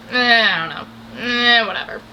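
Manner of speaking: mock a guy who has lost interest; dismissive. Man who got the girl he chased, dismissive.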